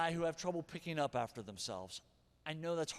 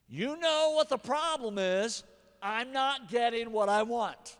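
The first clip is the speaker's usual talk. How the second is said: slow, loud and higher, each word pressed; slow, emphatic teaching line for the congregation; teaching the phrase; 5 semitones higher, 7 dB louder, slower than usual. Shown as a demonstration. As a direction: spell out the key phrase slowly and loudly. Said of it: "Here's the phrase I wanna teach you".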